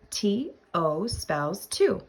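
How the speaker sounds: slow, clear "T O spells two" with a rise on "two"; slow spelling demo. Shown as a demonstration. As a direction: spell it out slowly, rising at the end.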